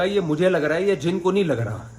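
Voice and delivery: retold yelp of protest. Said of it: "وہ بولنے لگا".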